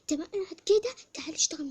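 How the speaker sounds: high, loud scolding; scolding the one who sits idle; angry shout. Pretend. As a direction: yell at the lazy one.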